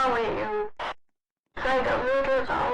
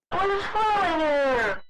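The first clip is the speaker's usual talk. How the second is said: higher, raised protest; indignant higher yell; indignant shout; 5 semitones higher than usual. Real, not acted. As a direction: shout your innocence. Protesting false accusation.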